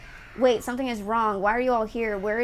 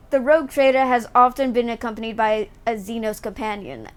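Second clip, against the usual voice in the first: story narration; 3 semitones lower than usual. Acted. Reads game dialogue aloud.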